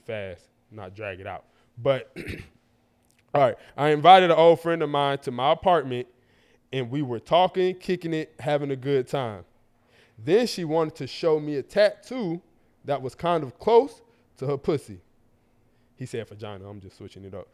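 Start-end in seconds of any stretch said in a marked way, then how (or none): 3.8-15.0 deliberate, measured read-aloud; careful reading of a listener's story; reading a letter aloud. A narrator's reading. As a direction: read the story out without rushing.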